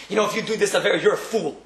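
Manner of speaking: lightly voiced scornful insult, how a rude man would say it; mock insult. Rabbi mimics how the Shulchan Aruch doesn't talk, light sneer. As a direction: toss off "you're a fool" in a hint of a sneering voice. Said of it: "He doesn't say".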